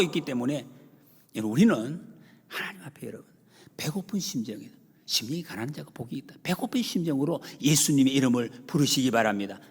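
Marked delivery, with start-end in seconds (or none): none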